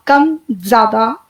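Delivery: very slow, let the voice lift at the end; slow breath demo. Shown as a demonstration. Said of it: "इस तरीके से सांस निकल रही है". (और धीरे, अंत में उठती आवाज़)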